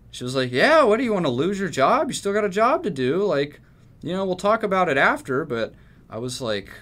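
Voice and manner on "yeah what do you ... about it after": imitating the boss, high and loud, pushy; mock bossy manager. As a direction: bark it like a pushy boss threatening the job. Manager threatens his job.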